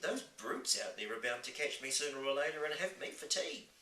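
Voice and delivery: put-on high, insistent orphan girl; worried little girl. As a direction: warn of danger as an alarmed young girl. Voices Sophie, fearing the giants.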